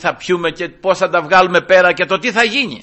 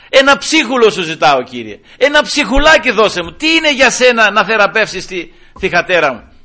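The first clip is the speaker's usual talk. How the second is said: loud, raised begging; insistent pleading; 3 semitones higher, 5 dB louder than usual. Retold or imitated. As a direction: beg hard for just one small favour, acting the mother. Woman begs the Lord for healing. (έντονο, φωναχτό παρακάλι)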